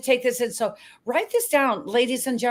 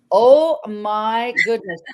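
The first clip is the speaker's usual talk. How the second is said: amazed; 6 dB louder, slower than usual. Retold or imitated. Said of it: "I was like".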